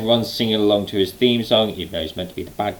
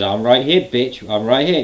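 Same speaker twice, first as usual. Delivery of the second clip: raised-pitch mock challenge; intense confrontation; 3 semitones higher than usual. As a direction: fire back at a rival, imitating him. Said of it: "basically that intensity".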